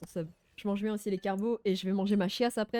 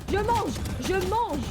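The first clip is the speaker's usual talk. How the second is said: slow words while chewing; mouth full; 7 semitones higher, 4 dB louder, much slower than usual. Real, not acted. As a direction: talk around a bite of food. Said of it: "t'inquiète pas, je mange".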